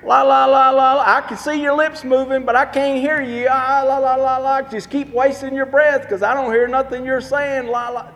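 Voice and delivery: put-on a childish sing-song taunt, lightly done; mock playground taunt. Shown as a demonstration. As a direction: tease like a kid on the playground with your fingers in your ears. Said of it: "I remember doing this".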